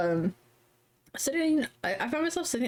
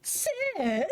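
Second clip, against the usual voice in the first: high squeaky imp calling his master; mock-timid gremlin question; silly little guy; 12 semitones higher than usual. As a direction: stretch it in a tiny creature voice. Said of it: "The little guy".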